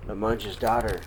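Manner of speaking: plain reading voice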